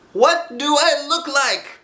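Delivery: high, bright bear voice calling out; Pooh's cheerful cry. Acted. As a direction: call like a happy little bear. Pooh voiced by narrator.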